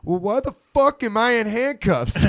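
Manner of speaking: high, drawn-out mock outrage; indignant protest. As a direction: imitate an indignant buddy calling out. Handcuffed buddy calls out in protest.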